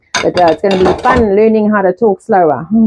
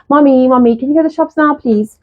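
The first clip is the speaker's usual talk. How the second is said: lightly voiced child, higher pitch; pleading child; 5 semitones higher than usual. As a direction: ask mommy like a wheedling kid. Child's request voiced in story.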